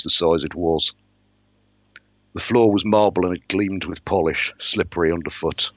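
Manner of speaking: measured first-person storytelling; even-paced audiobook-style narration; story narration. A narrator's reading. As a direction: read the novel aloud, steadily setting the scene. Narrates a novel aloud.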